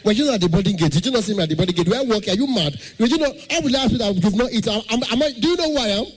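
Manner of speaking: mild mock angry passenger rant. Passenger who missed the snacks, mildly shouting at the attendant. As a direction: rant like an offended flyer. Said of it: "One person go come shout".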